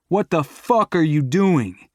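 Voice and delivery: jolted and alarmed; shocked outburst. Acted. To his girlfriend braking off the road, shocked and loud. Car suddenly stops off road.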